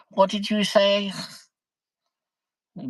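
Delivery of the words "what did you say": asking to repeat. Retold or imitated. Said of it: "I say".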